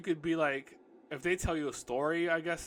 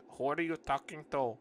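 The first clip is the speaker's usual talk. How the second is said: put-on Indian accent for Mia. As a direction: read her question with an Indian accent. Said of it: "I'm gonna give her Indian voice".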